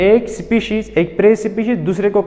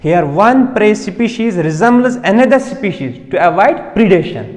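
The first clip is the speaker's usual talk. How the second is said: slow dictation; much slower than usual. Shown as a demonstration. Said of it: "repeats the definition".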